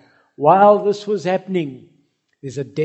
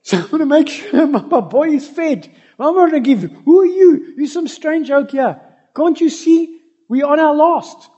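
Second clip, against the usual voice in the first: much higher, louder, defiant mother voice; widow protecting her son; 10 semitones higher, 7 dB louder than usual. Retold or imitated. Widow to the prophet, refusing to share her food, indignant and high. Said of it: "What if she said".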